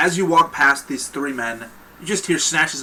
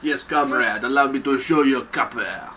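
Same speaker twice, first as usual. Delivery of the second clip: fake Russian-ish accent. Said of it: "those are all fake accents".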